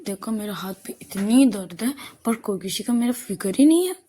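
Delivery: mildly hammed-up complaint; melodramatic self-pity. Aana puts on a drama about her hurting hand, mock self-pity. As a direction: play up the poor sore hand a little. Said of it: "आना फिर से नौटंकी करने लगती है".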